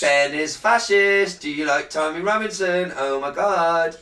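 hammed-up offended accusation; mock outrage. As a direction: play the offended victim, slow.

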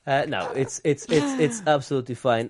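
strained, forced denial through teeth; through gritted teeth. Real, not acted. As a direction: insist it's fine through clenched teeth. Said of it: "When you say it through gritted teeth".

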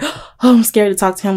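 lightly acted nervous timidity; retold timid fear. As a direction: play at being scared to speak. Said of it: "I went from, like".

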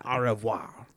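whispered softly. Pretend. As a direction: breathe it out in a whisper. Whispered repetition.

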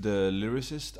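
"The Lyricist" offered as a model, rising at the end; showing pronunciation. Shown as a demonstration. Co-host answering how to pronounce it, tentative "The Lyricist". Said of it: "Hur skulle du uttala det?".

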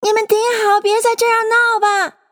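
high, sustained calling voice; shouting. A narrator's reading. Alice telling the animals to stop, shouting. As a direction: call out high in warning. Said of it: "她就嚷道".

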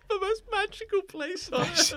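high, airy ad-slogan voice; mock slogan voice. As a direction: sell it like a theme park ad. Quoting Disney slogan ironically.

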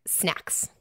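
hushed whisper on one word. Retold or imitated. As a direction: whisper it like a secret reveal. Dramatic reveal of The Cut's answer.

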